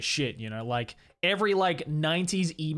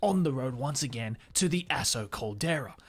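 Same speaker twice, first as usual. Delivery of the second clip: gruff British documentary narration; measured David Attenborough-like presenter inflection. Acted. Travel host narrating the next leg of the journey, gruff documentary inflection. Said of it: "narration voice is".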